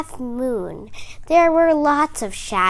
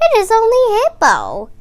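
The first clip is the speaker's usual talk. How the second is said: high, fast happy relief; relieved frog; 11 semitones higher, 9 dB louder, faster than usual. Acted. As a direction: burst out in relief.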